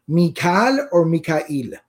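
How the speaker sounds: Mikal as mee-KAAL, Mikail as mee-kaa-EEL; contrasted pronunciations. Shown as a demonstration. Teacher recapping both forms, Mikal then Mikail, slow and distinct. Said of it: "those are the primary pronunciations".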